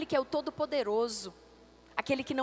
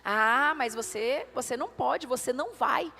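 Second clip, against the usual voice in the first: voice of doubt; 2 semitones lower than usual. Acted. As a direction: plant doubt, one point at a time. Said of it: "a boca de Satanás aqui ministrando".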